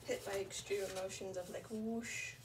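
stuffy, sniffly voice. Real, not acted. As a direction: talk with a runny nose. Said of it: "a bit sniffly".

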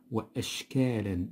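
وأشكالا with a clear glottal stop after "wa"; sounded cutting hamza. Shown as a demonstration. Teacher showing the hamza must be read, glottal stop in وأشكالا. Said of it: "يجب أن نقرأها".

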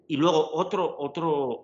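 rising enthusiasm on the next point; excited. Real, not acted. Host excitedly adding point.

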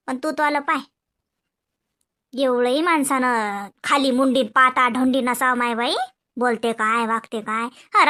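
put-on calm wise old woman; old aunt advising. Old aunt advises nephew quietly. (पुतण्याला समजावणारी म्हातारी आत्या)

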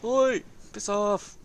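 mock indignant yell. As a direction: slowly yell them away, half in play. Tells attacking ship to back off.

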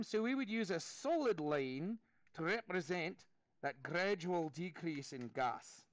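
light mock Scottish accent with "aye"; teacher hamming up a Scottish accent; a hint of Scottish brogue while teaching. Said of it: "get that graphed in a Scottish accent".

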